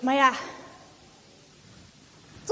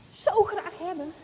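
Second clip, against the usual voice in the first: ordinary talk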